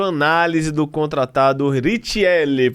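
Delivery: put-on slow, drawn-out Italian accent on Richelli. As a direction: stretch the words out in a playful Italian accent. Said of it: "Paulo falou que eu tô falando com sotaque italiano".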